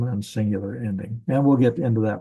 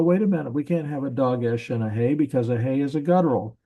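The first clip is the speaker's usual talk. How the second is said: higher-pitched mock protest; student's objection; 3 semitones higher, faster than usual. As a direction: voice a student catching the teacher out, pitched up at the start. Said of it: "and you go".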